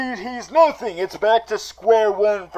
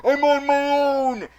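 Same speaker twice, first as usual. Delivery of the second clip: mock panic; 8 semitones higher, 5 dB louder than usual. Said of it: "Penguin's like".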